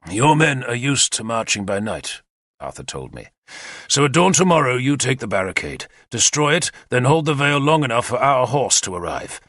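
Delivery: a lightly voiced commander, brisk and eager; keen war leader briefing his captains; Arthur's plan. Arthur explains the attack to his captains, eager and confident.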